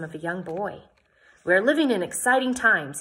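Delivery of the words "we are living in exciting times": insisting. A narrator's reading. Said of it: "he insisted".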